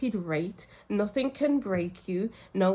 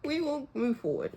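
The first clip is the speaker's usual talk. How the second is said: choked up but pushing on; real tears, trying to compose yourself; teary, with small laughs breaking in; tearful. Real, not acted. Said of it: "I've got tears in my eyes".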